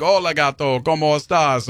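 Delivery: put-on American-accented Spanish, said to a cat; terrible Spanish accent.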